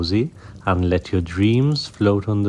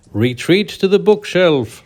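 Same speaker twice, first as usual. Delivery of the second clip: higher, louder alarmed command; cry out; 9 semitones higher, 6 dB louder than usual. Acted. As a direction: shout the retreat in alarm. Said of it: "Lady Mew Mew cried".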